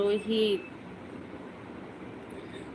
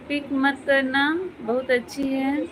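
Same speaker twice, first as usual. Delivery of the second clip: higher voice, rising tune on करना and है; puzzled reread; 3 semitones higher than usual. Real, not acted. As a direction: reread it like a confused question, not getting it. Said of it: "मैं समझी नहीं". (उलझन में, सवाल की तरह ऊँची आवाज़ में दोबारा पढ़ना)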